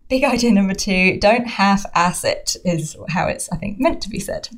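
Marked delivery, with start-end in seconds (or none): 0.1-2.5 American accent. Shown as a demonstration. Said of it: "so I'm gonna try that again".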